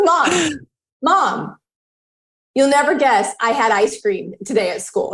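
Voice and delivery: put-on excited child. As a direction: squeal it like an excited kid. Daughter's excited news voiced.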